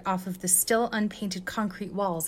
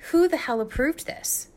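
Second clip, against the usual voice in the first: high, louder indignant demand; angry demand; 8 semitones higher, 4 dB louder than usual. A narrator's reading. Icy Hot demanding who approved the proofs, angry and raised. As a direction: demand an answer, outraged. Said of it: "demanded Icy Hot".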